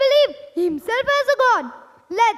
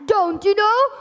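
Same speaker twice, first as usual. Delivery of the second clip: lightly hammed outrage; mild angry king; 3 semitones higher than usual. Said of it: "his cruel father".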